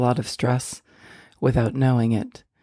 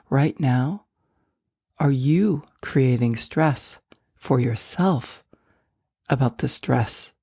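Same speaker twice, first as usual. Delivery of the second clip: guided meditation; 2 semitones lower than usual. Acted. Host guiding listeners to let go of stress, guided meditation. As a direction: guide them gently inward, leaving space between phrases.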